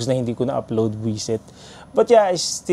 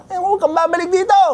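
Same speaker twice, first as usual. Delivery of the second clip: vendor cursing; faster than usual. Retold or imitated. Vendor shouting at the fleeing kid, mock angry. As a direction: yell after the kid to never come back. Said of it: "minura-mura pa niya ako".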